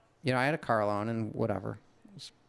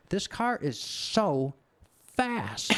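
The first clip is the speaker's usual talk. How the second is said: put-on Finnish accent; 8 semitones higher, much slower than usual. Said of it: "the guy in his accent".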